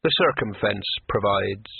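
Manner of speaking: casual. Acted. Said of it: "he said casually".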